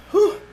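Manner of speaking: long winded exhale after lifting; breathless whew. Real, not acted. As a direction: blow out a tired breath. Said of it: "sorry, I'm out of breath".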